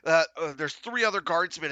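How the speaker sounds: normal talking voice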